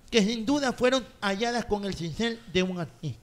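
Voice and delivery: lightly formal, courtly recital; mock-poetic recitation. Guest reciting his flirty post, mock-poetic declamation. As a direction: declaim a flowery love poem. Recites flowery poem aloud.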